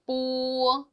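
뽀 said slowly with a tense, unaspirated bb; Chinese b sound. Shown as a demonstration. Teacher shows students the Chinese b, a slow tense 뽀. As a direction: draw out 뽀 with a tight, tense start. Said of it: "약간 된 소리가 나죠".

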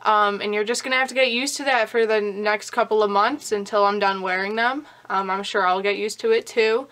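slight lisp from new aligners; talking with a light lisp. Real, not acted. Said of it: "I'm gonna have a little bit of a lisp".

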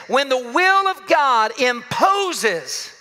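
each word laid out slowly; slow deliberate. Shown as a demonstration. Preacher slowing to stress his main point. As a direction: lean into the phrase, unhurried. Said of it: "I wanna say it like this".

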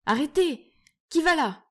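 high, loud challenge; sentry challenging an intruder, high and loud; high cry. Acted. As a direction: shout the alarm at a stranger. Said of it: "le cri aigu d'un nain".

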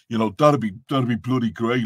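heavy, thick Dublin accent; broad Dublin talk. Shown as a demonstration. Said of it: "a good Dublin accent".

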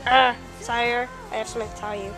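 very low, soft murmur; hesitant servant. Acted. Aide with bad news for the sire, hesitant low murmur. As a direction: broach bad news reluctantly.

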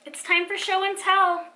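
loud, high teacher's call. A narrator's reading. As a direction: announce it to the whole class. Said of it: "called Missus Stewart".

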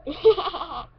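quirky showbiz giggle; character's odd laugh. Retold or imitated. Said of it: "that's her laugh".

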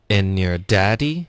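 slow "and your daddy" as en-yer DAddy, rising; linked drill model. Shown as a demonstration. Teacher modelling for the learner, slow linked "and your daddy". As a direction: link "and your", stress "daddy". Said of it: "我们来分段练一下".

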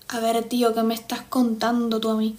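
imitated Castilian accent, lightly done; Spain accent. Shown as a demonstration. Answering a chat challenge in a Spain accent. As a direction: try on a peninsular Spanish accent. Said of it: "speak with Spanish of Spain accent".

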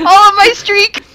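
loud, high crying wail; mock wail. Real, not acted. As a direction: wail over the loss. Wailing over lost streak.

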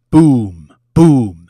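two loud spoken booms, each falling in pitch; mimicked booms. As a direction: boom out each blast, falling away. Acts out explosions in mock glee.

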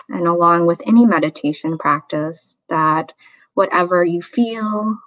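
unhurried meditation guide with long pauses; guided meditation. Real, not acted. Meditation teacher inviting listeners into a body scan, calm guiding voice. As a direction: gently lead them through the breath, leaving room between phrases.

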